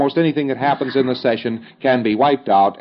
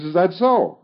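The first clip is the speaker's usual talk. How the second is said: surprised pre-clear; 7 semitones higher, slower than usual. Acted. Pre-clear voiced in dialogue.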